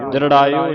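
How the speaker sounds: ਦ੍ਰਿੜਾਇਓ with d and r run swiftly together; quick "dri" onset on ਦ੍ਰਿੜਾਇਓ; said quickly. Shown as a demonstration. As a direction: skim from d into r in ਦ੍ਰਿੜਾਇਓ. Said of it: "ਜਲਦੀ ਦੇ ਨਾਲ ਪੜ੍ਹਨਾ ਹੈ".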